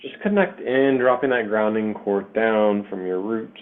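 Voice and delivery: measured meditation voice with long pauses between phrases; guided meditation. Acted. Meditation leader to listeners connecting to the earth, guided meditation.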